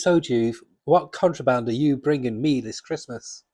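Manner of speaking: lightly voiced comic-book lawman; a hint of a stern judge, played for fun; Judge Dredd. Reviewer reading the Christmas cover, mock lawman voice. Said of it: "put my best Judge Dredd voice on".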